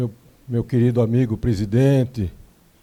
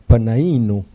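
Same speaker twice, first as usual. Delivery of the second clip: Italian accent; 3 dB louder than usual. Shown as a demonstration. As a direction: roll Panaino like an Italian name. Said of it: "Eu falei Panaino no sotaque italiano".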